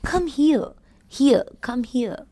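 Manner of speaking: "here" said as hear; "come here" with clear ear sound; correct here. Shown as a demonstration. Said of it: "H E R E is here".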